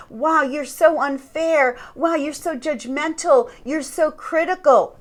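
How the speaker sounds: acted-out wounded accusation, piling it on; accusing. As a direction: imitate someone turning criticism back on you. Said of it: "start to accuse you and say".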